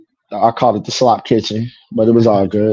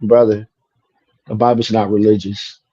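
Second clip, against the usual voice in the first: calm; 3 semitones lower, 3 dB quieter than usual. Retold or imitated. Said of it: "so calmly and says".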